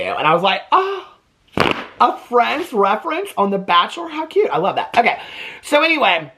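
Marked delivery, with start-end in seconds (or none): 0.7-4.5 high, gushing delight with a laugh. Retold or imitated. Vlogger recalling her delight at the Friends reference, high gush. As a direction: coo over it like it's adorable.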